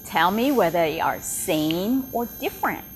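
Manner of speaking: teacher giving a listening task to students; teacher instructions. Shown as a demonstration. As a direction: talk to learners like a patient teacher. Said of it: "So I would say".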